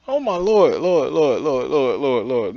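drawn-out falling Lords; despairing oh my Lord; exasperated groan. Real, not acted. Exasperated at the story.

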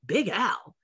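retold incredulous question, pitch jumping; taken-aback reaction. Studio staff questioning her audition choice, taken aback. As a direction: echo it back in mock disbelief.

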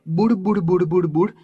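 quick repeated glugging syllables; bubbly onomatopoeia; imitated bubbling water. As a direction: imitate water gurgling into a pot. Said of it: "એવો અવાજ આવવા લાગ્યો".

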